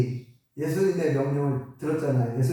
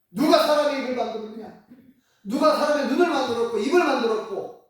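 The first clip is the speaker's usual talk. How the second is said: lightly rebuking, a bit higher and louder; mild rebuke; 6 semitones higher, 4 dB louder than usual. Retold or imitated. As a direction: scold Moses as God, half-stern. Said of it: "약간 책망하듯이 얘기하죠". (하나님이 모세를 가볍게 꾸짖는 말투)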